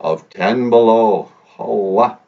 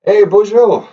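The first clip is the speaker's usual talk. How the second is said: playful greeting; 10 semitones higher, 5 dB louder than usual. Acted.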